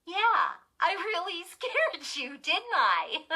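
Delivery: high, loud gleeful gloating; chuckling. A narrator's reading. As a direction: crow over the prank with a laugh. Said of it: "Lindy chuckled".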